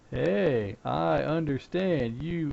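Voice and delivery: slow, talking-down reassurance; condescending. Shown as a demonstration. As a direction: speak down to the caller like a child. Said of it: "you don't wanna sound condescending".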